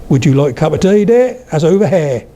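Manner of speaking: Norfolk lilt, jumping up on "dear"; broad Norfolk with wide, open vowels; Norfolk accent. Shown as a demonstration. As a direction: say "here" as one open "hair", Norfolk style.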